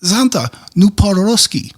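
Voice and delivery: high, slow imitation of a child; little Russian girl. Little Russian girl asking Santa about his Russian, imitated high voice. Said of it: "And she goes".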